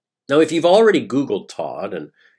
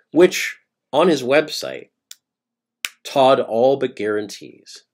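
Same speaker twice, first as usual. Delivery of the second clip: whispered aside; 3 semitones higher, 3 dB louder than usual. Real, not acted. Narrator confides to listeners in a sly whisper. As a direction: whisper "Which, on his website," like a sly secret.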